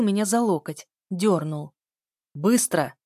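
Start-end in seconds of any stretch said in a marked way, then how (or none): 2.3-2.9 command. Acted. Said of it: "скомандовал он".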